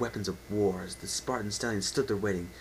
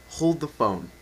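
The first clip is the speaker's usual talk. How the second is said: incredulous louder reread; amused double-take on the purple prose; breaking off amused; 6 dB louder than usual. Real, not acted. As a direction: stop and question the line. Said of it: "I'm sorry".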